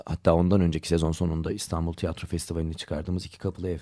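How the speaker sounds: sick, congested voice; stuffy nose. Real, not acted. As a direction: talk with a stuffy nose from a cold. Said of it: "Hastayım, özür dilerim. Sesim bir garip".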